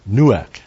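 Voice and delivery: nuach said noo-ahk; nuach, first mention; word nuach. Shown as a demonstration. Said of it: "but nuach".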